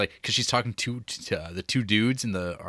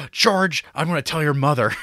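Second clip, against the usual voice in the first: 1 mock scolding girl; 5 semitones higher, 4 dB louder than usual. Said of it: "she's like".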